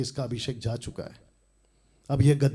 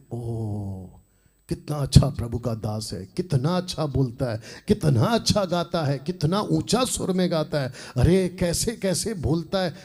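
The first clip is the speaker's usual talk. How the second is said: mock adoring public. Preacher mimicking a blind public praising a singer-preacher, mock admiration. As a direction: imitate blindly impressed fans, building in pitch. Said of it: "अंधा बनकर public देखती है".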